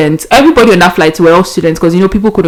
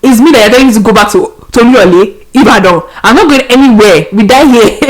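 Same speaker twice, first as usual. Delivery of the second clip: stranded traveller panicking on the phone to her mom; panicked outburst; 3 semitones higher than usual. Retold or imitated. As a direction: spill it out in a panic. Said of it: "I was freaking out. I was panicking".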